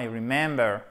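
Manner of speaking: REmember, first syllable stressed. Shown as a demonstration. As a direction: lean on the RE of remember. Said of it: "avec un accent tonique ici".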